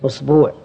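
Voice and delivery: أسبوع said "usbuu'", with long second u; long-u variant. Shown as a demonstration. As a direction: draw out the u in the end of أسبوع. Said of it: "اللغة العاشرة".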